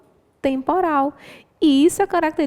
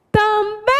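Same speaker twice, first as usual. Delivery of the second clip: TAMBÉM called out high, long BÉM; TAMBÉM with an exaggerated, raised last syllable; stress on last syllable; 8 semitones higher, 4 dB louder than usual. Shown as a demonstration. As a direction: hit and hold the final BÉM of TAMBÉM. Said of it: "é a última sílaba mais forte".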